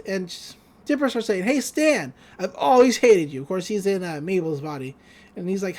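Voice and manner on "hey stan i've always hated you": raised, higher call across the room; calling out loud. Retold or imitated. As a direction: call it out so Stan hears. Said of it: "I'm not sure why he's calling out loud".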